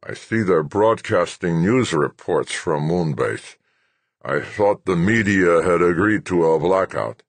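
put-on slow, querulous old man; cranky old general. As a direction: grumble it, annoyed and old.

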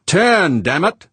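high, loud cursing command; urgent shout. A narrator's reading. George to pilot under fire, urgent cursing shout. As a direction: shout it in exasperation. Yelled order as hull is punctured.

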